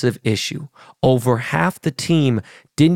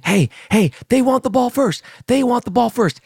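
imitated excited yelling; 11 semitones higher than usual. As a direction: mimic someone calling out urgently, pitched way up. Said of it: "He's yelling".

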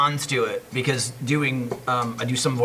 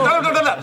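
much higher, rattled-off nonsense syllables; mock rapid line; 13 semitones higher, 3 dB louder than usual. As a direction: rattle through the line too quickly. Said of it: "I'm like".

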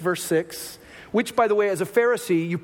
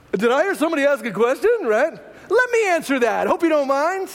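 playful Jesus; 4 semitones higher than usual. Retold or imitated. Jesus voiced as playful overhearer.

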